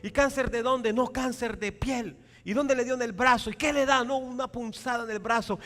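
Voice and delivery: high, loud back-and-forth; mock anxious questioning. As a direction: act out worried gossips trading alarms. Acts out worried gossip about cancer.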